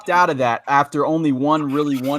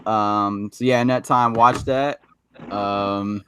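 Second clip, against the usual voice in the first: slow, softer calm-voice imitation of a friend; impersonating Jason; 4 semitones lower, 4 dB quieter than usual. Friend doing another host's outro in his voice, lightly calm. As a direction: lightly mimic your buddy's calm outro. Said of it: "you almost sounded just like him".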